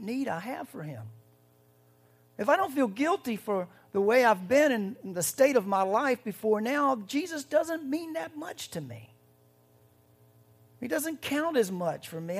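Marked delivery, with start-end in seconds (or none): 2.4-12.4 louder and higher, building; impassioned preaching. Real, not acted. Preacher urging the church to feel guilt, impassioned. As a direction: drive the point home.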